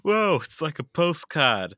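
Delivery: put-on Australian accent, slow and loud. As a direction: drawl it out like an Aussie soldier. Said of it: "Please do them in an Australian accent".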